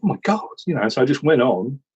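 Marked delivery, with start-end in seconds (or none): 0.0-0.5 mock panic.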